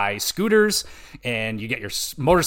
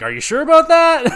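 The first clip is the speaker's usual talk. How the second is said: mock game prompt; 14 semitones higher, 9 dB louder than usual. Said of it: "you kinda get an opportunity to, like".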